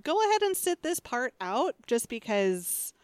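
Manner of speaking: firm, clear classroom instructions; teacher voice. Shown as a demonstration. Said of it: "you just heard my teacher voice".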